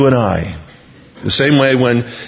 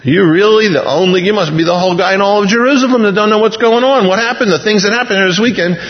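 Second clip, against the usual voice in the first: incredulous Cleopas; 4 semitones higher than usual. Pretend. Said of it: "we don't know the tone of his voice".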